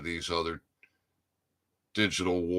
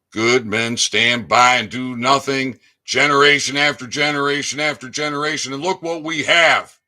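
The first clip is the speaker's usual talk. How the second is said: angry shout; 4 semitones higher, 9 dB louder than usual. Real, not acted. Angry tirade about inaction.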